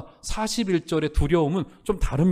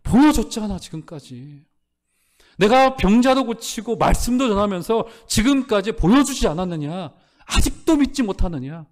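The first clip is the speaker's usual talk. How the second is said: voicing Jesus' rebuke; 5 semitones higher, 3 dB louder than usual. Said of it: "무엇을 깨닫지 못하는 거예요?".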